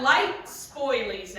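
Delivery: "spoilies" with an -eez ending, drawn out; spoilers as spoilies. Real, not acted. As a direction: say "spoilies", a cutesy slow take on spoilers. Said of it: "That's how I say spoilers".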